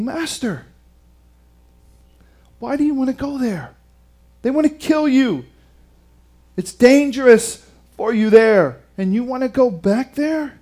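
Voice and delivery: mild acted disbelief; worried disciples. Voicing worried disciples questioning Jesus.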